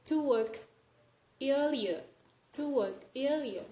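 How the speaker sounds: "work earlier" with no R sounds; omitted R. Shown as a demonstration. Teacher demonstrating deletion, "work earlier" said without any R. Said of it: "we just omit the R sound".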